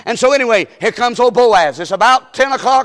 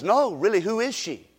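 soft, insistent question; hushed insistence; 7 dB quieter than usual. Retold or imitated. Boaz pressing his workers about Ruth, softly insistent. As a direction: press quietly for her name. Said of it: "Boaz says".

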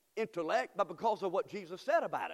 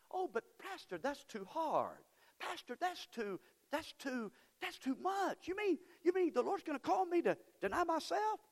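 whiny mock objector; 7 semitones higher, 3 dB quieter than usual. Mock whining church member.

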